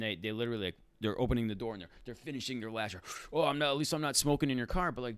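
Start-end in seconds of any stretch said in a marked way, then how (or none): 3.3-4.9 high, whiny mock of a defensive smoker; mocking passenger excuse. Driver mocking a smoker's lame excuse, whiny mock voice. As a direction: sneer his excuse back in a silly higher voice.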